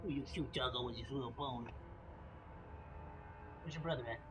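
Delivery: talking to dog. Real, not acted. Talks to the dog.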